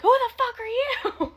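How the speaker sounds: very high, loud mock outrage; imitated flaming. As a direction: play an indignant girl telling someone off, drawn out. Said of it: "Ash's daughters start flaming Santos".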